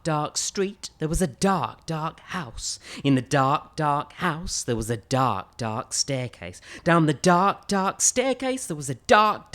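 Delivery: rhythmic spooky read-aloud; spooky story narration. A narrator's reading. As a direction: build the dark, dark chant.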